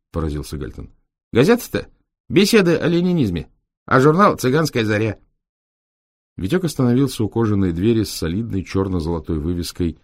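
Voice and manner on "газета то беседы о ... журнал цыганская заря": very high, bright gypsy voice; gypsy driver voice. Acted. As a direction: explain eagerly like a gypsy lad. Витёк поясняет. (высоким голосом цыгана)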